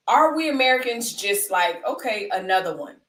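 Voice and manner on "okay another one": lightly voiced catchphrase of a rapper. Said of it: "in our D J voice".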